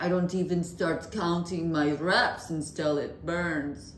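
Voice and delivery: slow, attempted Schwarzenegger accent; Arnold's Austrian accent. Quoting a bodybuilder on working out, in a dubious Austrian accent. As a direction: have a go at a drawn-out Austrian accent. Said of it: "What accent was that?".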